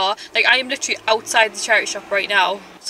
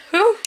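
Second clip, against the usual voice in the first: breathless whew; 9 semitones higher, 4 dB louder than usual. Real, not acted. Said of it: "I'm so out of breath".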